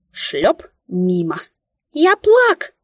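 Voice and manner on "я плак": high loud squeaky fake cry; mock wail. A narrator's reading. Mika faking tears at heroine: high squeaky mock wail. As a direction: whimper like a mouse faking tears.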